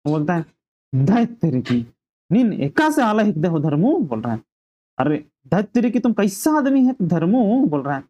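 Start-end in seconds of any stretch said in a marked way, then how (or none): 0.9-4.0 mildly acted exasperation; lightly played scolding of a companion; annoyed. Karmu loses patience with Dharmu once more, mildly annoyed. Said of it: "फिर से गुस्सा आ गया". 5.0-7.7 mock exasperation, rising in pitch; annoyed. Karmu rebukes Dharmu once more, acting annoyed. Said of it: "फिर से गुस्सा आ गया".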